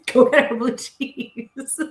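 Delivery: slow, drawn-out order; half-hearted slow demand; mock command. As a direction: play it bossy and amused. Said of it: "waitress quoting the order".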